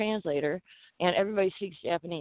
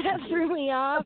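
normal talking voice

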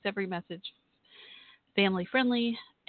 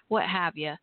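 light Texas accent on what have ya; casual Southern phrasing, Texas style; slower than usual. Real, not acted. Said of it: "can you hear my southern accent when I said".

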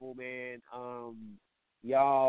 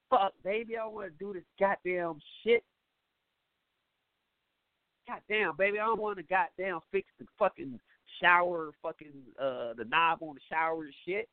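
higher whiny complaining man; mock grumbling boyfriend; 7 semitones higher than usual. Man whines to his girl about fixing the shower. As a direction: grumble like a put-upon boyfriend.

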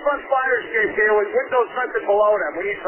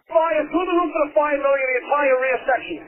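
urgent firefighter radio; 3 semitones higher than usual. Real, not acted. Fireground radio traffic clip.

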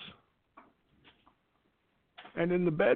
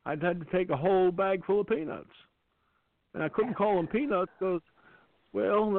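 Jimmy Carter impression; 4 semitones higher than usual. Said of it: "there's a different president involved".

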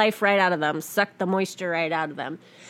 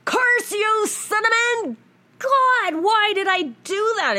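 high, loud cry of frustration at herself; exasperated outburst; 14 semitones higher, 5 dB louder, slower than usual. Retold or imitated. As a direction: shout it up high in mock despair. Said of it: "I'm like".

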